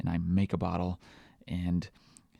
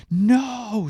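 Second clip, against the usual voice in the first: high, loud, drawn-out wail of refusal; child's screamed refusal; 7 dB louder than usual. Retold or imitated. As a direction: scream it like a toddler. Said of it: "she starts screaming".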